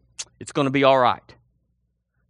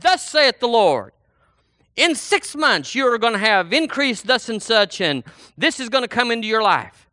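raised-pitch prophetic proclamation; lightly acted prophet; 4 semitones higher than usual. Acts someone prophesying.

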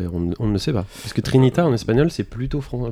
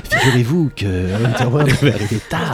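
possessed. Pretend. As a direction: ghostly voice from beyond the grave, laughing. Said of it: "une voix d'outre-tombe".

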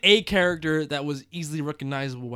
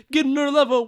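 "Getting on a level" squeaked up high and louder; high-pitched; 11 semitones higher, 5 dB louder than usual. Shown as a demonstration. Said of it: "Getting on a level, son".

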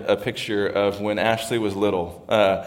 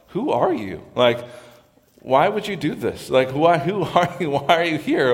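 raised, accusing "Who are you?", demanding why she came; indignant who-are-you; 5 semitones higher than usual. Shown as a demonstration. Boaz confronting the woman at his feet, indignant. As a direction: challenge her, half laughing, why would you do this. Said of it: "Or is it like".

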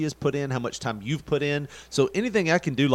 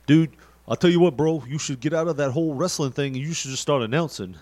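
impression of Phil. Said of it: "That's a good impersonation of, of Phil".

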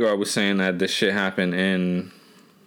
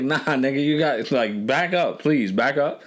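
higher, tense warding off; nervous back off; 4 semitones higher than usual. Retold or imitated. Telling a stranger at the gas pump to back up, higher and tense. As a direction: push the stranger away, uneasy.

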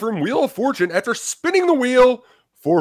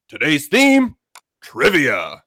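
ringmaster; slower than usual. Acted. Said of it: "radio host voice".

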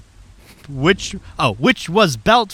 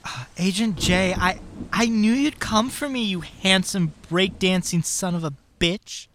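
breathy swooning woman; 3 semitones higher, 6 dB quieter than usual. Acted. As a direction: swoon over your hero. Ashley swoons over Agent J.

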